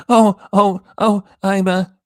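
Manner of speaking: high mocking whimper; mocking whiny imitation. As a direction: imitate her fake distress, high and put-on. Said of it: "It's like when she said".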